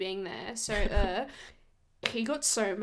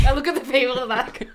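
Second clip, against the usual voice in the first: laughing; 3 semitones higher, 10 dB louder, faster than usual. Real, not acted. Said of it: "I'm joking".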